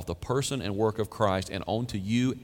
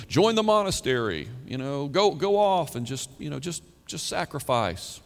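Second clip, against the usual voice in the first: high-pitched, louder mock exhortation; mock urging; 5 semitones higher, 3 dB louder than usual. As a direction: urge it on in a raised voice. Mock advice of false teachers.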